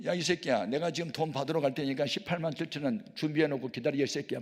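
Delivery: put-on drunk cursing. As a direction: bark the demand at the pastor. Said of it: "막 그러는 거예요".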